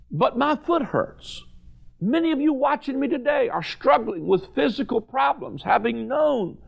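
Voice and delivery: preaching on healing, rising up in fervor; fervent preaching. Acted. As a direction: lift the congregation with conviction. Preaching builds in intensity.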